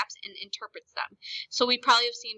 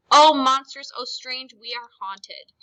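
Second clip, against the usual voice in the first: scared; 3 semitones higher, 9 dB louder, slower than usual. Shown as a demonstration. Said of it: "is scared".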